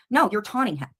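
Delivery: ordinary talk, nothing marked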